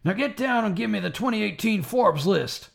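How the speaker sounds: drill sergeant. Acted. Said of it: "Full Metal Jacket parody".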